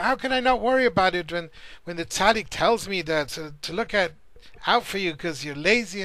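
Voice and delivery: a father pressing his son, a touch heated; upset father. Retold or imitated. Father scolding his lazy son, mildly exasperated. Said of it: "he was really upset".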